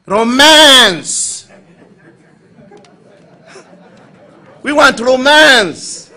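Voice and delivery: loud, high, slow cry for romance; mock demand. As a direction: shout it out like a frank sister. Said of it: "they're so frank".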